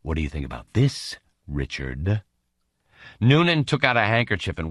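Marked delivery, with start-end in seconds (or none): 0.0-2.2 polite. Acted. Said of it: "inquired politely".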